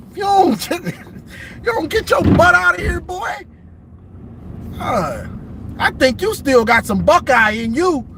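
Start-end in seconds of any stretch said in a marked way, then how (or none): 0.1-3.4 high, half-laughing shout at the player; mock coach yell. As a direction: run him out of the room with a yell. Coach yelling player out after loss.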